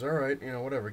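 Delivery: imitating a manager caving; mock resigned. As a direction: throw up your hands and cave.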